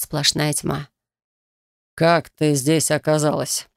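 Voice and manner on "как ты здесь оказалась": slow, curt commanding male voice; a domineering stranger, irritated; stern man. Acted. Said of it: "Его голос был низким, резким".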